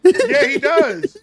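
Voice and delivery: high, slow squeaky voice; cartoon voice. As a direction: stretch it out in a squeaky voice. Answers as Whitey.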